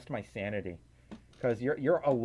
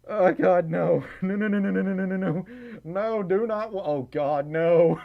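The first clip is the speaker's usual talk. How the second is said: loud, higher, rapid-fire refusals; raised voice, tumbling repeated no's; flustered protest; 4 semitones higher, 5 dB louder than usual. Real, not acted. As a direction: protest in amused horror. Flustered, laughing protest at herself.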